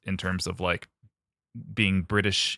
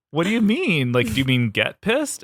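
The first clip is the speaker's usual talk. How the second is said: puzzled friends retold; 5 semitones higher, 4 dB louder than usual. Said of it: "And we're like".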